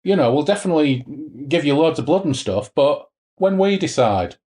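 fob him off with a sweet-talking lilt; mock smooth recruiter. Retelling how the devil fobs off Thanet, wheedling. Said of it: "He says".

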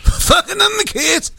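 slow, high comic growl; Bernie Mac impression. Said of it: "That's him".

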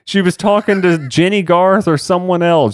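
high, laughing mock outrage at her cohost; shrill-free, teasing fake fury with laughter; mock exasperation. Real, not acted. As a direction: playfully scold him for spoiling it. Scolding cohost for jumping ahead.

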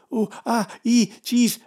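high mock yelps of pain. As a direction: squeal it like a big baby. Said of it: "I continued".

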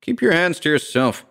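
high-pitched angry warning; irritated, snarled rebuff. A narrator's reading. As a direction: snap a hands-off order. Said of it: "he snarled".

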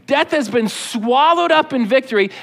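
triumphant taunt. Acted. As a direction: declare victory over a beaten enemy. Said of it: "that's what God is doing here to Satan".

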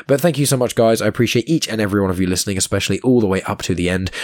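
hoarse, croaky throat. Real, not acted. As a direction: speak through a sore, croaky throat. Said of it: "Apologies for my croaky voice".

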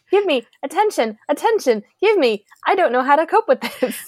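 high, pleading mock whine for attention; needy whine. Imitating Skye pestering Ward, high needy mock whine. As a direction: beg like a kid tugging a sleeve.

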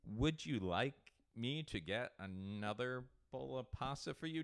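slow, careful offer with pauses; mock server sympathy. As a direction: play the over-considerate waiter. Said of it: "it was like that sympathy thing".

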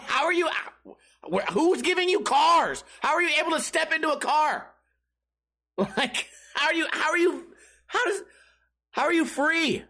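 high, stammering astonishment; baffled disbelief. Acted. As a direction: sputter questions in exasperated disbelief. Acting out his baffled reaction.

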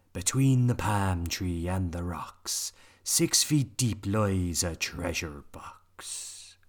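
slow secretive whisper. Acted. Pirates reading the map rhyme.

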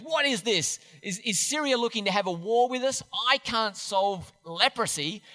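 mildly panicked king, pitch lifted; lightly hammed-up alarm at an impossible request; mock freak-out. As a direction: act out a king in a bit of a flap. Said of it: "the king of Israel freaks out and goes".

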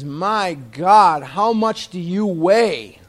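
a touch of outrage, drawn out; appalled demand, words stretched slowly; heated dentist. Retold or imitated. Dentist confronting his patient in the chair, heated. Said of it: "Now he's really hot".

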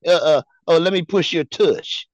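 lightly hammed-up come-on; mock floozy. Mocking the co-host's name for the play, mock-seductive. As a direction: imitate a flirt, drawing the words out. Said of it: "you sound like a little hoe".

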